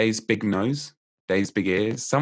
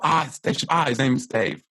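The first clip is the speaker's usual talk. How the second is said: higher, quick burst of mock discovery; sudden realisation; 5 semitones higher than usual. Memory teacher acts out recalling a forgotten name, sudden realisation. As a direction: act out the name suddenly coming back.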